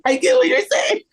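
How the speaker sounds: giggling through the words, high; laughing. Real, not acted. Cohost laughing at the joke, high giggling reply. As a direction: laugh while you say it.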